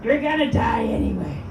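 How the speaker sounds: loud shouted meditation ending; a hammed-up shout closing the meditation track; mock meditation shout. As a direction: yell the calm meditation's last line. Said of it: "Here's what that meditation was like".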